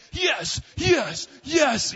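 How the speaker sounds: put-on bouncing-off-the-walls child yelling yes; excited kid shouting. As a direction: shout it like a wired little boy who won't sleep.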